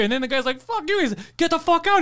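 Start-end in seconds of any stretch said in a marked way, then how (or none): 0.6-1.0 very high mock outburst; imitated yelling. Customer cursing the staff, high imitated yelling. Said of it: "and they're yelling". 1.4-2.0 high mock angry order; imitated yelling. Shop worker ejecting customer, high imitated yelling. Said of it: "and they're yelling".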